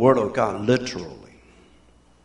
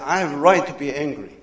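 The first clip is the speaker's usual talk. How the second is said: retold angry outburst; 6 dB louder than usual. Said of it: "that night I was furious".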